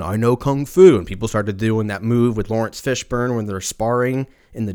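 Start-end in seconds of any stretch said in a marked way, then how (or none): 0.0-1.0 Neo quote. Retold or imitated. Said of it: "you were like".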